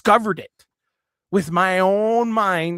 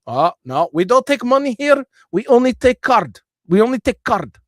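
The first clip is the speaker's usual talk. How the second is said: higher, louder prim shop voice; imitating a cashier telling a customer they only take card; mocking cashier; 6 semitones higher, 5 dB louder than usual. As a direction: mimic a store clerk refusing cash. Mocking cashier refusing cash.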